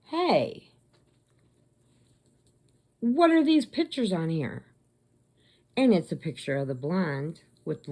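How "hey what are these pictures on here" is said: surprised. Retold or imitated. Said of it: "she goes".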